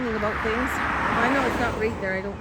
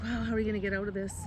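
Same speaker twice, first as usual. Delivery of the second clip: mock panic; 6 dB quieter, much faster than usual. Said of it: "kinda freaking out".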